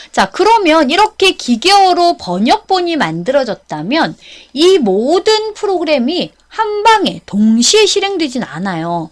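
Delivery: ordinary delivery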